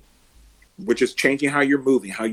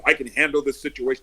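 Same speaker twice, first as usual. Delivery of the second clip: 1 heroic voice. Shown as a demonstration. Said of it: "I'll lower my voice on purpose".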